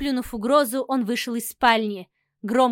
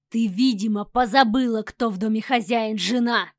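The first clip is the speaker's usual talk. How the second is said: thundering threat; 2 semitones lower than usual. Acted. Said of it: "прогремел он угрожающе".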